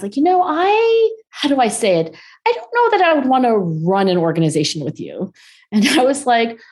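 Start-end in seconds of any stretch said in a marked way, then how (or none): 0.2-5.3 high-pitched imitation of tactful hesitation; gentle, hesitant. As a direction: break it gently, feeling for the words. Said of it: "gently, after a pause".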